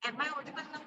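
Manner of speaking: very faint, far from the mic; words almost lost, very soft; barely audible. Real, not acted. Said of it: "Your voice is not clear".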